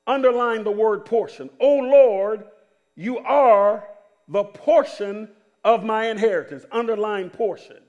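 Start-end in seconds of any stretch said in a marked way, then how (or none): 1.6-6.6 slow, emphatic Bible reading; preached scripture reading. Acted. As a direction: declaim the verse slowly, weighting each phrase. Reads scripture out to congregation.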